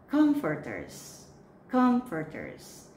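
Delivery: comforters stressed on COM; stress on the first syllable. Shown as a demonstration. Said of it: "This accent is on the first syllable".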